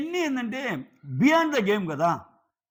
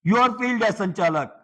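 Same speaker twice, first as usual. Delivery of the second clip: slow, louder, scolding put-down; retold accusation, slow and louder; mock accusation; 5 dB louder, much slower than usual. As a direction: spell out the verdict slowly and loudly. Retold argument, accusing him.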